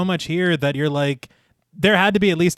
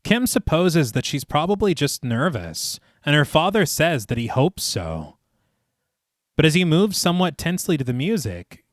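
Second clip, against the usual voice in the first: measured, lilting storyteller read; story narration. A narrator's reading. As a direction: narrate the scene phrase by phrase, each falling to a close. Reads the film rewrite aloud.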